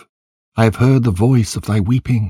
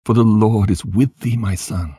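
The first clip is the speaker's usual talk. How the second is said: higher-pitched, sorrowful plea; a touch of grief in a consoling prayer; understated lament, urging and consoling; mildly weeping, praying; 5 semitones higher than usual. A narrator's reading. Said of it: "with a voice weeping and praying in these words".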